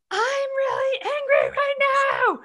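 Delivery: high, loud yelled announcement; retold yell. Mom yelling her anger at her daughter, high and loud. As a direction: shout it out to show the anger. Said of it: "but I yelled".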